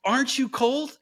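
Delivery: hammed-up frost spirit asking sweetly; Morozko. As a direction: tease the girl with the question. Morozko questions daughter.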